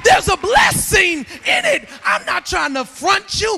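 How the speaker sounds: driving sermon with punched words; full-force preaching. Acted. Preacher demands work for a healthy marriage, driving preaching. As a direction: preach hard at the congregation.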